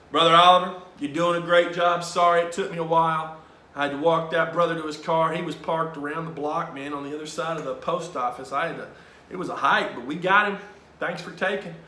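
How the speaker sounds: loud, hearty priest voice; lightly imitated upbeat priest; Father Tim. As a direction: boom out cheerful praise to a helper. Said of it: "And Father gets back".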